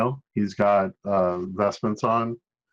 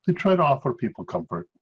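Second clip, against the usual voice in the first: put-on a wobbly mix of Irish and French accents; shifting put-on accents; 7 semitones higher than usual. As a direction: priest drifting between accents. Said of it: "twenty different accents into this".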